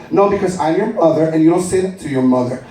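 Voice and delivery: a hint of a stern Puerto Rican mom; mother scolds son for talking back, lightly voiced; scolding mother. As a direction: lecture your son, then threaten him. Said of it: "That's my mother".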